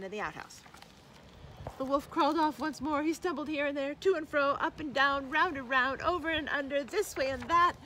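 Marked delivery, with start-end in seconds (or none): 1.8-7.7 high, loud, pounding rhythm; driving narration. A narrator's reading. Narrator follows the stumbling wolf, loud and urgent. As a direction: hammer each phrase of the journey. Narrating the wolf's last frantic trip.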